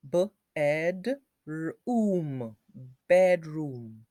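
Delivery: "Bedroom" with a long oo in room; "Bedroom" with the oo held long; oo sound. Shown as a demonstration. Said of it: "We need to use the oo sound".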